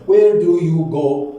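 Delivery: slow, drawn-out question for learners; teacher's slow demonstration; slow modelling. Shown as a demonstration. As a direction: model each word slowly.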